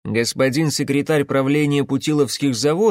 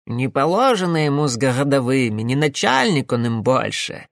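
satisfied. Acted. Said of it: "с явным удовлетворением хмыкнул старый Яков".

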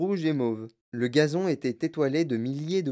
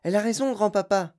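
put-on higher boyish exclamation; excited cry; 6 semitones higher than usual. A narrator's reading. Charlie agrees to grandpa, excited cry. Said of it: "s'écria Charlie".

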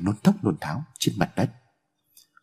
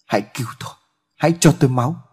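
wailing plea; 4 semitones higher, faster than usual. A narrator's reading. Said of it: "gã kêu gào nói".

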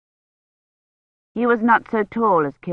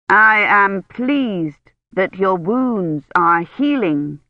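slow, each word pressed; every word emphasized; 3 dB louder, much slower than usual. A narrator's reading. Gawain speaking slowly to the injured lady, every word stressed. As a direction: lean on every single word. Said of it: "emphasizing every word".

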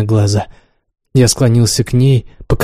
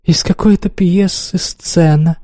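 high, slow taunting question; scornful mockery, pitched up and unhurried; mocking; 6 semitones higher than usual. A narrator's reading. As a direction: draw it out in a jeering higher voice. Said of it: "издеваясь, спросила она".

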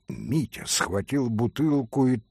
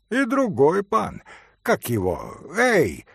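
eager, bustling host; a touch of fussing, pressing a glass on the pan; 5 semitones higher than usual. Acted. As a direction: hurry them to take a glass. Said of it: "хлопотал Митя".

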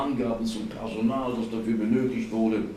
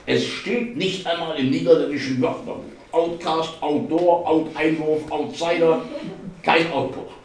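raised, louder exasperated listing; 7 semitones higher, 5 dB louder than usual. A narrator's reading. Martin finds the word missing, exasperated. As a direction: punch out each dictionary entry, high. Exasperated search through the dictionary.

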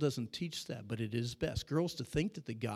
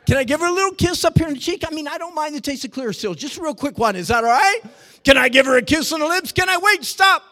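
put-on high, loud, fast giddy teen; hammed-up eager teenager; mock giddy teen; 13 semitones higher, 16 dB louder than usual. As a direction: squeal out the begging like a teen. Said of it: "questions that comes to me".

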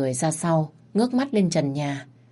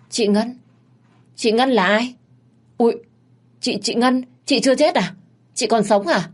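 higher, halting disbelief, half glad half worried; stammering shock; 7 semitones higher, 4 dB louder than usual. Acted. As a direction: stumble over the name, hardly believing she lives. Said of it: "Thằng Sơn ngập ngừng, giọng run rẩy, vừa mừng vừa lo".

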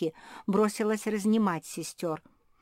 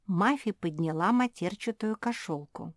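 usual speaking voice

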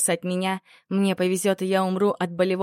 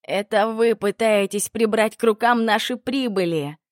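through gritted teeth; 3 semitones higher, 4 dB louder than usual. Acted. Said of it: "Сквозь зубы процедил Патолог".

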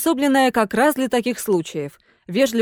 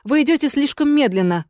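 complaining ghost lady; 4 semitones higher than usual. Acted. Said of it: "пожаловалась дама".

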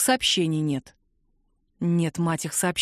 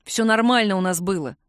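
plain reading voice

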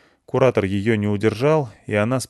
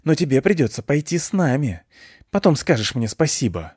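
low looming threat; 5 semitones higher than usual. Acted. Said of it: "прошипел он сквозь зубы".

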